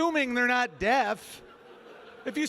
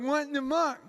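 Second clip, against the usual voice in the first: mock deaf voice; 3 semitones higher than usual. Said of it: "you just can't do deaf voice".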